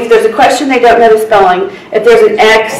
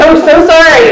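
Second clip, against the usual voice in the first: retold apology; 5 semitones higher, slower than usual. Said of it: "I was like".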